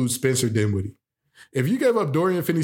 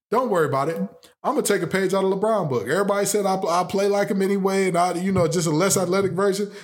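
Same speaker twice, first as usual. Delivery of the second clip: higher, excited rant; imitating Luka; 4 semitones higher than usual. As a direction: play a fed-up star leaving. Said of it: "I'm looking at the front office saying".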